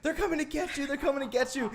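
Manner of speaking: a high, mock-spooky taunt; mock scary scream. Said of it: "like, scream".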